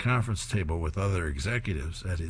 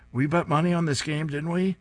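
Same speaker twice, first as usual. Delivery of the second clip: high, louder sly gloating question; 8 semitones higher, 3 dB louder than usual. Acted. Lola teasing her best friend about the bet, high and sly. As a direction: rub it in playfully.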